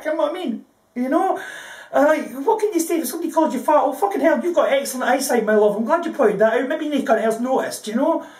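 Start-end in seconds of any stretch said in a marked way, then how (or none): 3.8-7.9 mildly hammed-up sarcastic praise; mock-grateful sarcasm. Woman answering someone who called her fat, mock-grateful sarcasm. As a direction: pretend to be impressed, lightly sarcastic.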